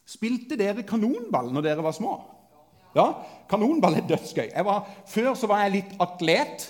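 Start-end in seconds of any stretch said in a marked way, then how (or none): none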